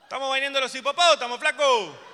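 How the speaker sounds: huge, high, drawn-out yell; full-throated indignant shout; shouting from afar. Acted. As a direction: holler a complaint across a great distance. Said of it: "desaire me gritan".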